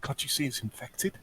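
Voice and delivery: lightly voiced posh healer, urgent; a hint of posh, scolding the guard; faintly posh healer warning the guard. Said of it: "I'm gonna put on my posh voice here".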